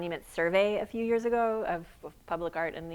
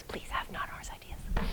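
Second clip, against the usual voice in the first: soft, breathy whisper under the breath. An aside while asking the audience for monument ideas: whispering.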